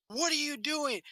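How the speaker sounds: high-pitched mock scolding; scolding librarian. Librarian catches kids in the girls' bathroom, mock scolding. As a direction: imitate an indignant adult catching a child.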